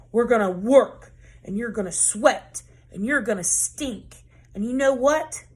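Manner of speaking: loud, stern coach driving her team; coach barking. Acted. Tough coach barking orders at eight-year-old players. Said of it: "she barked".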